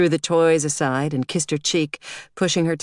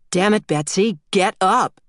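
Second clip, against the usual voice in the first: raised, louder, irritated order; exasperated father; 4 semitones higher, 3 dB louder than usual. A narrator's reading. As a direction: snap at your kid to get out of bed. Father rousing sleeping daughter late.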